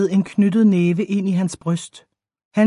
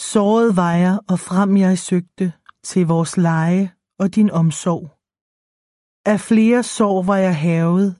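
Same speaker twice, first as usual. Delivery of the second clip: put-on slow, measured reading of old saga verse; solemn epigraph reading; verse recitation. A narrator's reading. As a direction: recite the lines slowly, drawing out the words.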